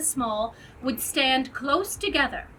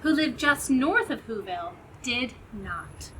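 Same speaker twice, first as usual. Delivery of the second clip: lively read-aloud rhyme; storybook narration. A narrator's reading. Narrator reading Seuss rhymes to children, storybook voice. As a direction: tell it like a bedtime story.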